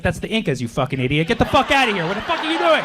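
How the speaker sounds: hammed-up tirade building to a shout; mock angry rant. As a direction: tear into her like an outraged know-it-all. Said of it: "I was like".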